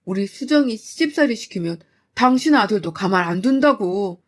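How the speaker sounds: father raging at son-in-law, loud; furious father. Acted. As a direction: berate him like he means violence.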